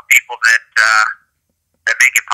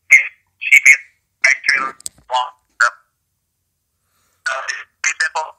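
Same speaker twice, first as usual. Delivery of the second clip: breaking up on the phone line; choppy, cutting-out phone audio; bad connection. Real, not acted. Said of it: "Y-, you're breaking up, Chad".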